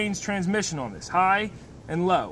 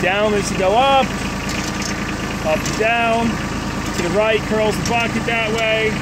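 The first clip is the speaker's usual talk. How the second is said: raised voice over a running engine; shouting over engine; 3 semitones higher than usual. Real, not acted. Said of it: "Hopefully you can hear me over the engine".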